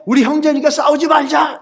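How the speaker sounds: high-pitched retold appeal; mock pleading. Acted plea to stop fighting.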